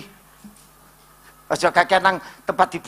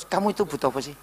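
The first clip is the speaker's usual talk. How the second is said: lower, gentle questions; God asking; 5 semitones lower than usual. Acted. God questioning the congregation, gentle and low. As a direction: list each need calmly and low. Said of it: "Tuhan itu ngeluh-ngeluh".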